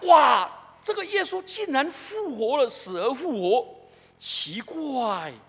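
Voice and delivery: a touch of stunned wonder, wow drawn out; mild astonished disciples; amazed disciples. Retold or imitated. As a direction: react like you can't believe he rose. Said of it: "门徒都发现说".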